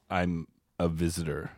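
low, soft answer as the visitor; imitated visitor. Visitor answering why he is here, low imitated voice. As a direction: play the visitor, hushed and low. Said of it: "And he goes".

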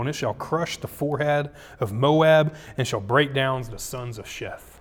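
declaimed oracle, each phrase opening strong then easing; scripture reading. Acted. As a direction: proclaim the prophecy in measured phrases.

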